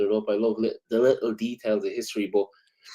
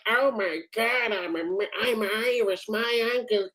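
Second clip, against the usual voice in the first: high, slow gushing parody of an eager American; mock American tourist; 9 semitones higher, 5 dB quieter, slower than usual. Irishman mocking Americans boasting of Irish roots, high gushing parody. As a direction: ham up the fake pride in Irish roots.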